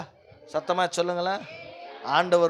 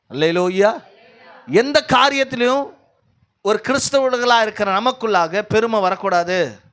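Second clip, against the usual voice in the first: raised, emphatic preacher's voice; forceful preaching; 6 semitones higher, 7 dB louder than usual. Real, not acted. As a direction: drive it home to the congregation.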